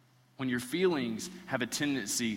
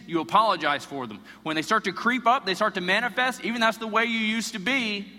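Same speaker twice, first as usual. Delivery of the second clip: rising, louder and higher exhortation; forceful preaching; 5 semitones higher, 6 dB louder than usual. Acted. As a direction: press it home like a preacher building up.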